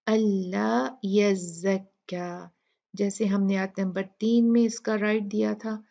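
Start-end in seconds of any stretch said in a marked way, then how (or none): 0.1-2.5 slow, measured recitation. Acted. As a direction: recite it slowly and evenly. Reciting the verse part.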